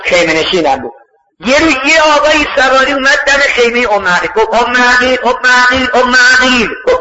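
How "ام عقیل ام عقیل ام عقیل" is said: higher-pitched repeated call; retold summons from outside. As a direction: call her name toward the tent. Rider calls woman out of tent.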